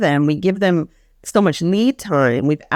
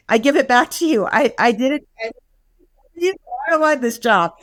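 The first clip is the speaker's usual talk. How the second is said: higher, lightly acted staffer handing the job back; mock fed-up staffer; 6 semitones higher than usual. Staffer telling the director she never wants the job, mildly mock fed-up. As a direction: toss it back, half-joking and done with it. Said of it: "we also heard staff going".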